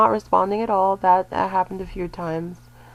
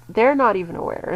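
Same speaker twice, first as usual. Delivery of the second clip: THEY'RE leaned on, then "not even aware"; emphatic stress on THEY'RE. Shown as a demonstration. Explaining that some women are unaware, emphatic stress on THEY'RE. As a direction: put the weight on THEY'RE. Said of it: "that's what I'm emphasizing there".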